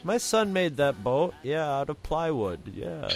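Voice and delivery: a hint of a folksy Minnesota local; imitating Minnesota accent. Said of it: "they all talked very slowly".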